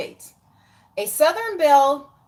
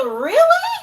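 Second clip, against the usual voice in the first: shrill disbelieving really, pitched way up; incredulous high squeal; 7 dB louder than usual. Real, not acted. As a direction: squeal it like you can't believe it.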